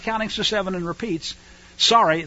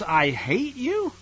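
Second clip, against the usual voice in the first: mock paraphrase; 5 semitones higher, 3 dB quieter, much slower than usual. Mocking paraphrase of the commandment.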